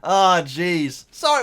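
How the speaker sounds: high laughing voice, slow on the quote; laughing and emotional. Real, not acted. Retelling the prank ending, laughing and choked up. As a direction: laugh through the teacher's relieved line. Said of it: "I don't know why I got emotional".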